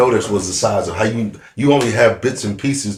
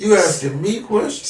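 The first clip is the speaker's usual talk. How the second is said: high, rising mock disbelief; incredulous; 11 semitones higher than usual. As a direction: ask it as if you can't believe it. Mock disbelief at Netflix questions.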